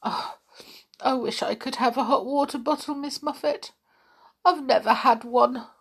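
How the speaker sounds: high, plaintive little spider with a cold; a sorry, sniffly creature pleading to be good. Acted. Spider character speaking.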